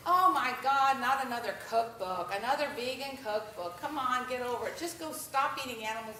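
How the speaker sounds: loud, fed-up outburst at the start, easing off after; mock a fed-up commenter sneering at vegan cookbooks; exasperated rant. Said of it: "blasted, blasted on my Facebook".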